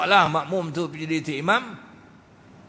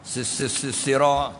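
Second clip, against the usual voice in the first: stammering recitation demo; 2 semitones lower, slower than usual. Shown as a demonstration. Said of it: "tak payah gagap tu".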